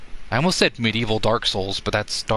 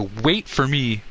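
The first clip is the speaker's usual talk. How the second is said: drawn out misquote; 2 semitones higher, slower than usual. Retold or imitated. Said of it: "I just changed it to".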